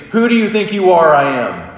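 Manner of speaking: high, loud mock victory scream; hammed-up champion's scream; retold scream. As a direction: scream it out after winning the title. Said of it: "he just starts screaming".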